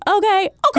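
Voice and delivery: "okay" attempted as a high "okurr"; attempted trilled okay. Shown as a demonstration. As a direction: try rolling an R on the end of "okay". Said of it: "I can't do it".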